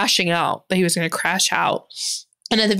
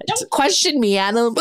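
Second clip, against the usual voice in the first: mock haughty rebuke; lightly voiced haughty lady; imperious plummy grande dame; 3 semitones higher than usual. Mock haughty reply to friend.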